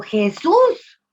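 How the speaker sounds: high, loud desperate cry of Jesús; a small boy crying out to Jesus on the cross, high and loud; child's shout. Acted. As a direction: call out Jesús at full voice like a frantic boy. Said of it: "Por eso el niño gritó".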